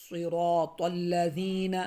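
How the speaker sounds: صراط الذین with ذ said as a plain ز; wrong soft ذ. Shown as a demonstration. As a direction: show the mistaken الذین, slowly. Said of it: "صراط الذین بھی نہ ادا کریں".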